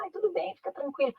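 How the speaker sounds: high, soft coddling voice; mock soothing. Lenient mother excusing a student, mock soothing. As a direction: imitate an indulgent mother letting it slide.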